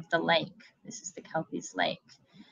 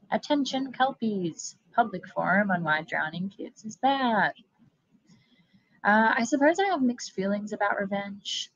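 lightly voiced, chatty monster being interviewed; a breezy killer explaining her method; hint of a friendly Kelpie on camera; Kelpie interviewee; 2 semitones higher than usual.

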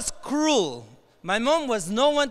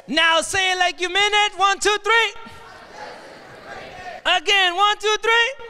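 rousing shout; 7 semitones higher than usual. Real, not acted. Speaker urging students to mean it, rousing shout. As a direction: fire up the crowd, voice pitched high. Pushing crowd to chant harder.

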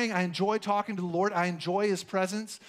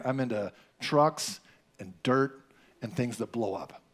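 lower, slower, fumbling; a shy kid searching for words, dragging them out; mock tongue-tied teen boy, lower and slow; awkward boy talking to girls; 8 semitones lower than usual. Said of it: "it's like".

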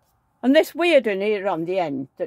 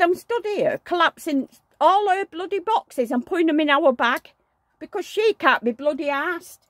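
high, loud ranting; fishwife rant; 9 semitones higher, 4 dB louder than usual. Retold or imitated. To her husband about the neighbour's boxes, a fishwife rant. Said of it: "You sound like a fishwife".

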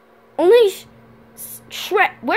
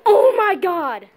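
surprised; 4 semitones higher, 3 dB louder, slower than usual. Acted.

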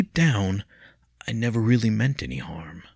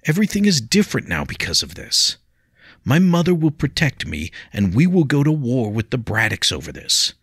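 higher, louder anguished warning; distraught; 5 semitones higher, 6 dB louder than usual. A narrator's reading. William telling Leah of war, loud and distraught. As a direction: dread of the coming war.

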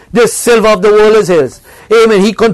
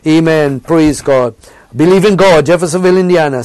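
normal talking voice

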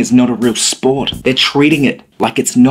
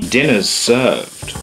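seductive; 3 dB quieter, much slower than usual. Pretend. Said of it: "The way you just said that".

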